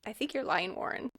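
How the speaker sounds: understated, deadpan accusation; dry, quiet call-out; straight-faced. Retold or imitated. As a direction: say it with a straight face, softly. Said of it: "Which is a straight face".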